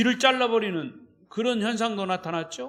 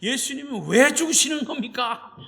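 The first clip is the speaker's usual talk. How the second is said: higher, urgent scolding; agitated rebuke; 4 semitones higher than usual. Acted. Peter gripping Jesus by the shoulders, agitated rebuke. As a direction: shake him awake with your words. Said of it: "벌벌벌 떨면서 막 흥분하면서".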